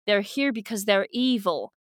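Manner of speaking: earnest, lightly voiced old man's speech with a put-on accent; grandfather. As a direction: urge them on like a solemn elder. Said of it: "Yami's grandfather's like".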